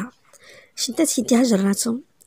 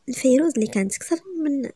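plain reading voice

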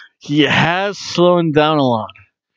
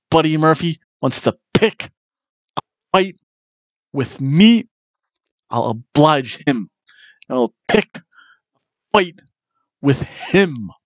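Aleister Black impression. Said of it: "Then Aleister Black said".

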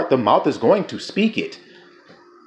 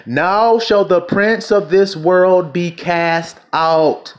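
slow, emphatic preacher's declamation; weighty, stretched-out verse reading; scripture proclamation; 3 semitones higher, much slower than usual. Acted. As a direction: draw each word out as a pronouncement. Proclaims verse, later rereads it evenly.

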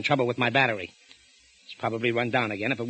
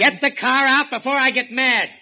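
raised, slow threatening command; angry order; 12 semitones higher, 7 dB louder than usual. Acted. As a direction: bark it out as a final warning. Husband orders wife angrily.

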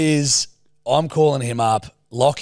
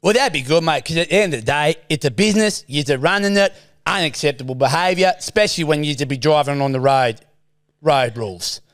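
Stephen's voice. Acted. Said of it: "it's Stephen's voice".

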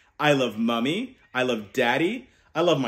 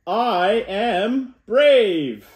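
very slow, loud and higher; rousing call to repeat; 5 semitones higher, 5 dB louder, much slower than usual. Shown as a demonstration. Uncle leading kids to repeat, loud and slow. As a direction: stretch it out big so kids join in. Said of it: "Say it again with me".

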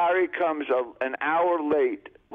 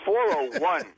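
incredulous echo; 3 semitones higher than usual. Retold or imitated. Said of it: "I go".

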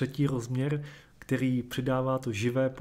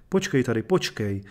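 shouted; 2 semitones lower, 6 dB louder than usual. Acted. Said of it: "vykřikl".

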